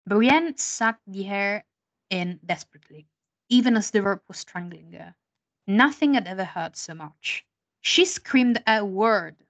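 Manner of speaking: slow, deliberate English reading; slow dramatic book reading. Shown as a demonstration. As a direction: savour each word of the English. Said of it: "in inglese è così".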